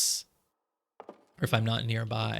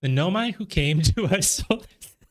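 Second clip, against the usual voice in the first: higher, teasing sing-song read with a laugh; mocking read; 7 semitones higher than usual. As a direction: read the sign as if mocking those nerds. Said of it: "They're just nerds".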